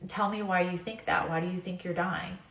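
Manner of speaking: a patient voice that soothes, not scolds; loving God. Retold or imitated. God answering the frightened patient, softly loving. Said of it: "just in the most loving way".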